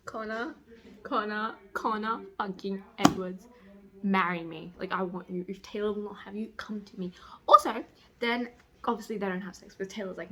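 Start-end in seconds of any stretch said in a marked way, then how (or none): 5.0-7.1 soft unvoiced whisper; whispered plea. Real, not acted. Reader whispers to a book boyfriend, breathy plea. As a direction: breathe it like a secret longing.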